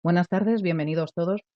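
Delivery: resonant, polished welcome like a presenter; announcer greeting. Shown as a demonstration. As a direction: open a broadcast in a placed professional voice. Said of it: "Ya notáis que es otro registro". (saludo de locutor con voz impostada)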